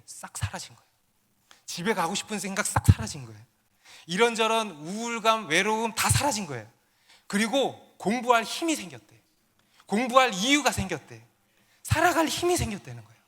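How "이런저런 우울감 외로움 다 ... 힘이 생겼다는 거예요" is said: higher-pitched, building testimony; emphatic preaching. Real, not acted. Pastor proclaims a homesick student's recovery, emphatic preaching. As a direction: drive each change home to the congregation.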